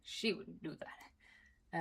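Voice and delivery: slow whispered aside. Real, not acted. Telling the listener about her old self, slow whisper. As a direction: drop to a slow confiding whisper.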